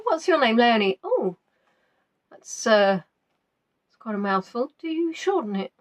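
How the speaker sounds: a hint of someone politely puzzled; imitating a questioner. Somebody asking Leonie about her name, lightly imitated questioner. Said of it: "Somebody said that to me yesterday".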